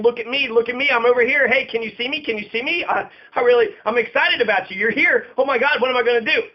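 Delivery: lightly voiced excited dog; a touch of eager attention-seeking, as a dog; eager dog's tone. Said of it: "You can tell the tone".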